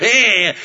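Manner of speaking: drawn-out grumbly "eh"; imitated grumble sound; whiny grumbling noise. Shown as a demonstration. Preacher imitates a nation grumbling, whiny noise. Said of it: "it just sounds kind of".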